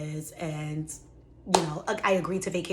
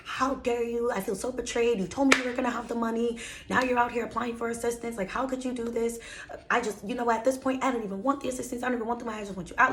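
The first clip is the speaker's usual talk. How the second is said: higher mock-outraged landlord voice; imitating angry landlord; 5 semitones higher, faster than usual. Retelling her landlord's outburst to viewers, higher mock fury. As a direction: play the betrayed landlord blowing up, pitched higher. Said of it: "He blew up. He lost his freaking shit".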